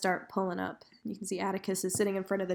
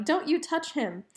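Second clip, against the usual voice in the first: mock yell; 7 semitones higher than usual.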